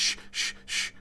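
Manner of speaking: whispered shush to quiet his wife; embarrassed husband hushing his wife in a whisper. Acted. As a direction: hush her without being heard. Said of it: "the husband's like".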